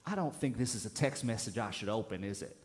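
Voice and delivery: lightly imitated Southern grandmother; a hint of a grandmother's Southern accent; deep Southern accent. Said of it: "deep Southern accent".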